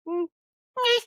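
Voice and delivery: high falsetto mm, eh; mock shrug up high; dismissive shrug. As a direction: brush it off in a squeaky voice. His own shrugging reaction.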